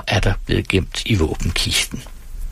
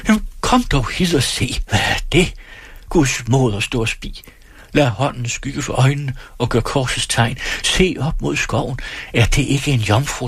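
excited calling; 3 semitones higher than usual. Acted. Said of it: "råbte alle i munden på hverandre".

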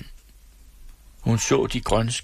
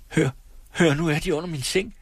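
hoarse whisper; 7 semitones higher than usual. Acted. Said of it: "udbrød Else hæst hviskende".

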